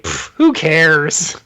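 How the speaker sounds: slow, drawn-out scoff; mock indifference. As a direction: puff it off as if unimpressed. Acting out indifferent Iceman.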